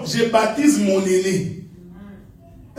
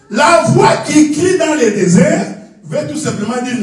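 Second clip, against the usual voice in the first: animated, raised preacher's voice; emphatic preaching; 3 semitones higher than usual. Real, not acted. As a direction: drive the point home. First take before calmer repeat.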